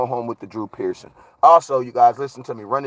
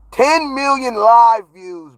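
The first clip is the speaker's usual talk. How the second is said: excited; 8 semitones higher, 4 dB louder, much slower than usual. Real, not acted. Celebrating view count again.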